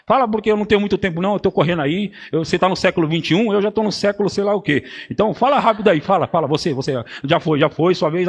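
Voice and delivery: fast, impatient, rushing God; mock hurried prayer. Pastor mimicking people rushing God in prayer, fast and impatient. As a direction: hurry through it like no time. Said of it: "Ah, fala rápido".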